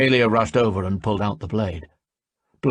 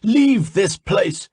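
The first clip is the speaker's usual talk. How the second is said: louder, slow furious command; angry order; 12 semitones higher, 6 dB louder, slower than usual. A narrator's reading. Harmon ordering the traitor away, slow loud fury. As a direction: drive them out. Angry spirit banishing them.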